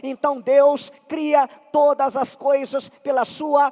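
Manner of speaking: emphatic sermon delivery; preaching. Acted. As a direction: drive the point home to the congregation. Preaches with rising force.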